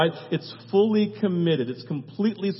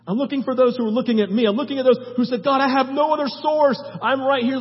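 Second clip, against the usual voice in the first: higher, pressing, eager voice; God's eager call; 4 semitones higher, 3 dB louder, faster than usual. Acted. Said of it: "God looks and says".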